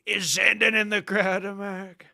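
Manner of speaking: lightly voiced announcer working the crowd; mock rally hype; stadium hype call. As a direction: call it out like a concert host to the arena. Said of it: "I'd be like".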